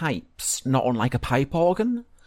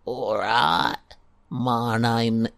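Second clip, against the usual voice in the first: skeleton voice; much slower than usual. Acted. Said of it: "what does a skeleton sound like?".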